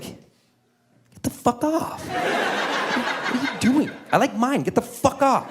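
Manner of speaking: high-pitched, drawn-out mock panic; startled protest. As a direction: squeal it in comic alarm. Startled as kid hugs his leg.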